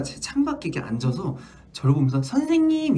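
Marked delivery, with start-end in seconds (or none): 2.2-3.0 put-on much higher child's call. Child at the window calling the teacher, high and childlike. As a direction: call to the teacher like a small kid. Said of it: "이러는 거예요".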